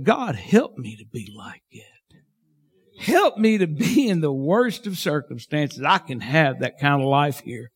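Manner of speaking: a hint of a whispered prayer; quiet prayer. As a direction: pray it to yourself, humbly. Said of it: "I'm thinking to myself".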